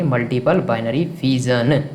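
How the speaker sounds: slow, deliberate repeat of a key term; teacher spelling out a term at half pace; slow, drawn-out term. Real, not acted. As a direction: stretch out each word for the class. Teacher repeats term after asking class.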